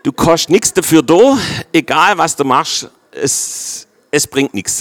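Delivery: Swabian dialect with an emphatic start; Swabian grace. Shown as a demonstration. Preacher joking with the congregation in Swabian dialect. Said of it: "Also das ist Gnade auf Schwäbisch".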